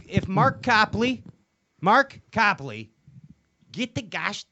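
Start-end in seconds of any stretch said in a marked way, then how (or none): 0.1-2.9 calling out. Acted. Calling out to Copley.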